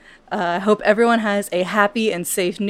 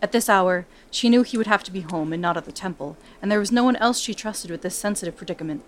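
measured storytelling read; story narration; 4 dB quieter than usual. A narrator's reading. Narrator reading Brianna's backstory to podcast listeners, storytelling. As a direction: draw listeners into the tale. Reads fantasy story aloud.

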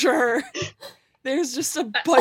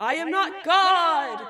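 slow laughing goat protest; 6 semitones higher than usual. Acted. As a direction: insist slowly as the goat. Goat denies being God.

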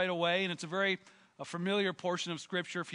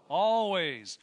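emphatic call; 7 dB louder than usual. Acted. Congregation response, shouted emphasis.

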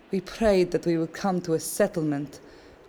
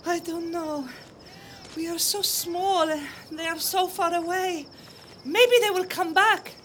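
comforting mother; 13 semitones higher than usual. Acted. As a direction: soothe the child despite doubt. Mother comforts her daughter.

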